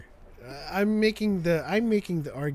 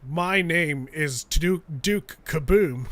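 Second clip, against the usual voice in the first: slow Keanu line, a little louder; deadpan movie-star intro; Keanu Reeves impression; 4 dB louder than usual. For the friend, a slow, slightly louder Keanu intro. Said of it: "you get to Keanu Reeves".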